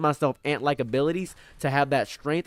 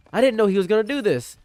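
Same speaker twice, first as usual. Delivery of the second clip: high, louder gasping disbelief; mock shocked bystander; 8 semitones higher, 5 dB louder than usual. Imagined public reacting to his rise, high mock shock. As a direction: play a stunned onlooker.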